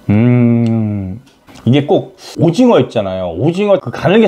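chewing while talking; speaking around food; mouth full. Real, not acted. Seen 0: Took a bite at -1; mouth working, "음~" while chewing early on.

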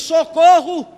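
a sudden cry for help. Shown as a demonstration. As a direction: call out socorro as if badly hurt. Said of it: "ele dá o grito e diz".

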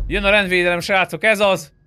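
high, loud hype call; thrilled announcement; excited cheer. Real, not acted. Cheering as police arrive.

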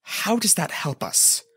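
frustrated, drawn-out challenge; heated. A narrator's reading. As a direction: demand it slowly, with rising temper. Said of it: "Link asked heatedly".

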